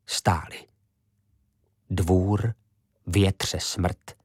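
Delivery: breathless whisper of suspense. A narrator's reading. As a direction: hold the tension. The tense moment of silence. (šeptem)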